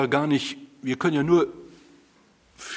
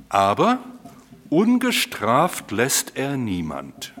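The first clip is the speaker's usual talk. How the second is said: solemn divine proclamation; 3 semitones lower, 4 dB louder, slower than usual. Acted. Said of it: "Gott stellt sich selber vor".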